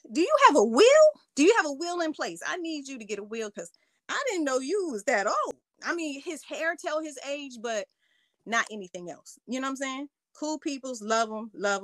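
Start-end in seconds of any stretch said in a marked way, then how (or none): 0.1-5.5 mock shocked. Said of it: "you like, "What?".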